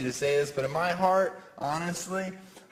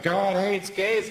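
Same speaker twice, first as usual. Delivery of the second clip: slow, drawn-out chant; a hint of a hammed-up protester; mock upset protester; 3 semitones higher, slower than usual. Comic acting an upset bigot, slow chant. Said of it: "I get so upset and be like".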